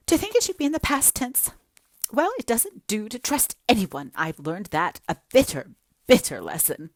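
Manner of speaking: high, loud, self-pitying lament; jilted girl pouring out woe to Anne; melodramatic young woman. Acted. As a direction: wallow in every word like a tragic heroine.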